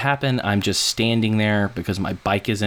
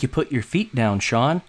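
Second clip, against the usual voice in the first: mock-patient, higher, half laughing; exasperated; 5 semitones higher than usual. Retelling how he told Sean the obvious, exasperated and amused. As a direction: spell out the obvious, amused disbelief.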